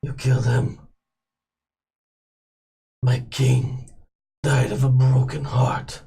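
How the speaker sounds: menacing, measured villain; cold villain voice. Acted. GM voices Trollgoff.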